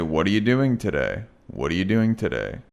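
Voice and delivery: "today" said as "t'day" in a casual question; reduced to in today. Shown as a demonstration. Teacher modeling casual "today" in a question. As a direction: keep "today" light, "t'day". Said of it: "So I could say".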